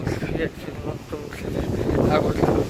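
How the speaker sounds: shouting over wind. Real, not acted. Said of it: "malgré le vent".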